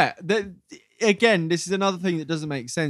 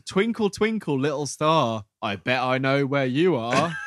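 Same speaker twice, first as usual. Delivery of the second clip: robot voice. Retold or imitated. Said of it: "like, a robot voice".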